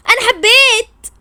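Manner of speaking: high, slow swooning announcement; dreamy confession. Acted. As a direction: sigh it like you're in love.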